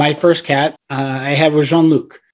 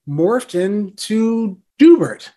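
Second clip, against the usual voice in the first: normal talking voice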